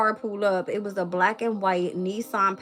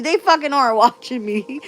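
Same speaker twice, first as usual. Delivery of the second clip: loud, high-pitched ranting with a laugh; worked-up, raised-voice indignation; indignant outburst; 5 semitones higher, 9 dB louder than usual. Real, not acted. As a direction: challenge them loudly, half laughing. Indignant rant about being watched.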